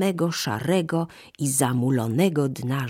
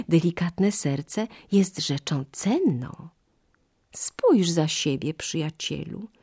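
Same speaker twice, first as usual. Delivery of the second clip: sly monkey; 5 semitones higher than usual. Acted. Monkey fooling the crocodile, hushed and sly. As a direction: point him back with a hushed sly voice.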